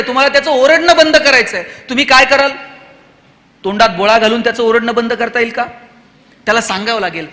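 usual speaking voice

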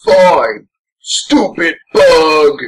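slow, sulky giving in; grudging mutter. Retold or imitated. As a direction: concede with a sulk. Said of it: "He's like".

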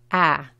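"a" as the short English vowel of "that". Shown as a demonstration. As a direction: isolate the short A sound "a". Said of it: "es la A corta del inglés".

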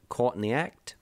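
a hint of Australian vowels on caught in the act; Australian accent. Shown as a demonstration. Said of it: "if you say it in an Australian accent".

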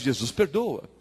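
low, soft, brief reassurance; patient absolution. Acted. Pastor replies to a confessed sin, quiet patient reassurance. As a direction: answer quietly, dropping low.

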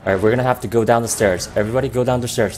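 fast, loud callout to team; shouting orders over battle. Real, not acted. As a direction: bark the move order quickly. Calling team down the stairs.

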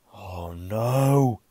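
loud dismayed groan. Acted. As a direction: groan oh no in despair. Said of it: "he groaned".

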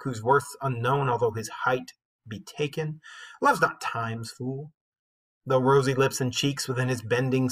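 measured recital of a sonnet; poem reading. Shown as a demonstration. Teacher reading the sonnet to students, measured recital. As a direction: read the sonnet aloud to the class. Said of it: "let me just start out by reading it to you".

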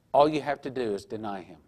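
a tempting whisper; whispered temptation. Retold or imitated. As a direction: breathe it like a sly lure. Tempter's final coaxing line.

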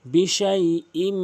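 বিশাইইম with a humming nasal ending; বিশাইইম with ghunnah. Shown as a demonstration. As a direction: hold the nasal hum on বিশাইইম. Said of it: "গুণনা করবেন".

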